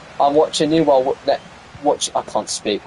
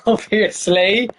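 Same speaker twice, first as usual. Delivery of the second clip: "Obviously" stretched very slowly with a rising end; mock drawn-out; 5 semitones higher, much slower than usual. Shown as a demonstration. Streamer teasing after getting the name wrong, slow drawn-out "Obviously". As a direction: drag out "Obviously" sarcastically.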